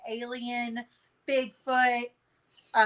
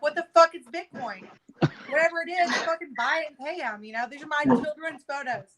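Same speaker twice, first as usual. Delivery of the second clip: retold freak-out; 5 semitones higher than usual. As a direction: demand he just pay the hackers, half-acting the fury. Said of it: "and so I lose my shit".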